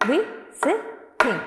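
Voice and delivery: "visiting" slowly split into three separate beats; syllable by syllable. Shown as a demonstration. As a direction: break "visiting" into vi, si, ting with a pause after each. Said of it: "How many beats?".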